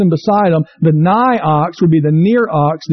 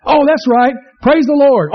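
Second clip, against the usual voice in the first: remembering aloud; 6 semitones higher than usual. Retold or imitated. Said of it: "rider remembers word".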